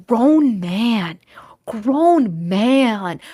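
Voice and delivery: hushed, shaking-head whisper; disbelieving whisper. Real, not acted. Telling viewers about the man, in a disbelieving whisper.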